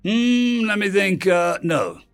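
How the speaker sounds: high, teasing mock deliberation; mocking refusal. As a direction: toy with them, high-pitched, before refusing. Prankster mockingly refuses the plea.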